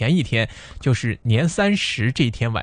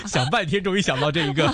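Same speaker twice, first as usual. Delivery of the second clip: laughing at own pun; 9 semitones higher than usual. Real, not acted. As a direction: chuckle through the words.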